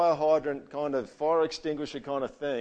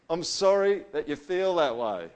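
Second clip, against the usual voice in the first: grudging apology; 4 semitones higher, 6 dB louder than usual. Retold or imitated. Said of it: "What about this one?".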